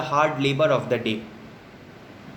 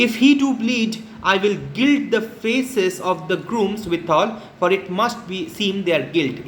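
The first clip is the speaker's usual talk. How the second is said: dramatic reading. Acted. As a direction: read it with cold resolve. Teacher reads Lady Macbeth's lines.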